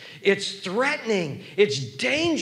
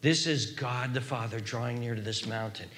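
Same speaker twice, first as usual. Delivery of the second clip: hushed awe; 10 semitones lower, 8 dB quieter than usual. Real, not acted. Repeats the awed reveal.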